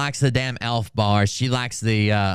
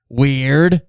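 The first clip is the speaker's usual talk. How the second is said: mock surprise; 7 dB louder than usual.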